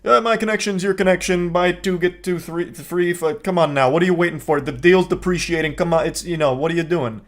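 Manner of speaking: a hint of a pushy salesman; lightly pitched hard sell; car salesman pitch. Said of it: "full car salesman pitch mode".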